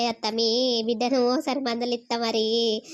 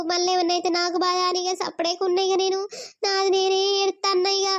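high-pitched, weepy lament; tearful worry; 5 semitones higher than usual. Acted. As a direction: plead like a worried, tearful mother. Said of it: "నువ్వు ఏడవకు".

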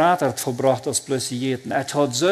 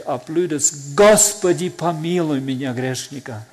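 retold cry for mercy; 5 dB louder than usual. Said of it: "aber ich schrie".

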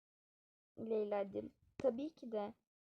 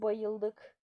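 loved it; 3 semitones lower, 4 dB louder than usual. Acted. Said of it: "Hatta beğenmek ne?".

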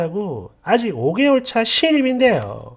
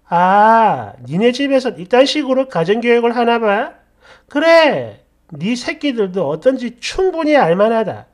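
scornful comeback; 3 dB louder than usual. Acted. Acted insulting comeback in quarrel.

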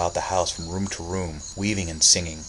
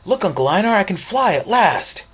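put-on much higher, louder boy crying out in triumph; ecstatic shout; 13 semitones higher, 8 dB louder than usual. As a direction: call out that you can finally fly. Boy crying out while flying.

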